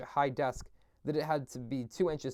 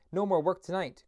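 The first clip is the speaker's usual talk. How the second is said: loud, high, hearty call; jolly shout; 6 semitones higher, 4 dB louder than usual. A narrator's reading. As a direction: call the lads cheerfully. Fezziwig calling out.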